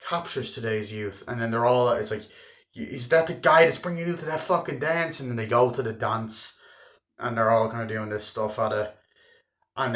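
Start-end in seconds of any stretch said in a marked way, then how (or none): 2.7-5.2 suspicious dad. Retold or imitated. Dad suspicious about the date.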